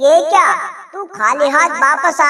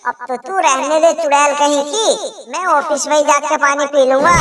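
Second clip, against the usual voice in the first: lightly voiced fed-up husband. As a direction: scoff at her uselessness. Husband gives up annoyed.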